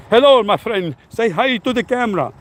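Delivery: light imitation of a European accent; thick European accent. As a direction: put on a thick European accent to imitate the vlogger greeting girls. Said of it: "he has this thick European accent".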